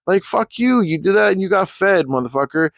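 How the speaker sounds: heated rant at an online troll; angry. Acted. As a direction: let the anger out at him.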